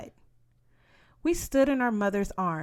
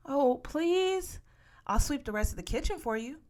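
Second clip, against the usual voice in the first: put-on high begging child voice; pleading; 8 semitones higher than usual. A narrator's reading. Child begging Mama, high and pleading. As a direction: beg Mama, fast and high.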